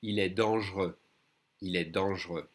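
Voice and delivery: «Il est dangereux» as dang'reux, no final consonant; silent X. Shown as a demonstration. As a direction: skip the middle E and leave X silent in «Il est dangereux». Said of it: "don't say the X".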